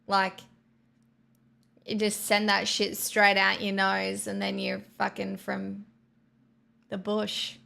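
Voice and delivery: a touch of broad bogan Australian; bogan Australian accent. Shown as a demonstration. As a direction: send a bogan Australian accent out through the nose. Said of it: "I can do a pretty bogan Australian accent".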